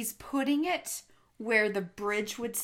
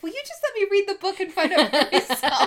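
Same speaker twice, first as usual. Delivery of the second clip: annoyed; 9 semitones higher, 7 dB louder, faster than usual. Retold or imitated. Retelling co-host's annoyed reply.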